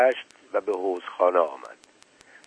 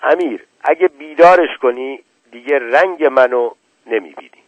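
mother shouting; 4 semitones higher, 6 dB louder than usual. Acted. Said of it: "مادرش فریاد زد".

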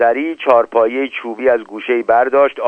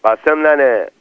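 mildly hammed-up shout across the room; calling out. Ali Qomi calls to Qasem for drinks, a mild shout. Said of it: "داد زد".

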